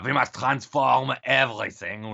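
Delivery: slow, lightly voiced German accent; a hint of a Klaus Schwab German accent, said slowly; Klaus Schwab impression. Host mocking Schwab's plan to transform everything, light German accent. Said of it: "my Klaus Schwab impression is not great".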